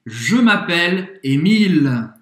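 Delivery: slow, clear "Je m'appelle Émile", stress on Émile; model for repeating. Shown as a demonstration. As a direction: say it slowly for learners to copy. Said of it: "é sua vez de treinar". (frase-modelo lenta para o aluno repetir)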